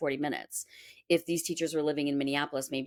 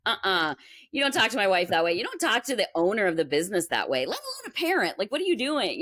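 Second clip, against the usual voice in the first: angry scolding; 4 semitones higher than usual. Retold or imitated. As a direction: tell him off for how he spoke to your wife. Husband scolds teacher for disrespect.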